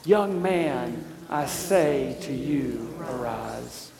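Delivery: slow, measured line for the people to echo; leading a call and response. Shown as a demonstration. Pastor leading the congregation in a spoken response, slow and measured. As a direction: give the line slowly so the congregation can say it with you. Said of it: "Say it again".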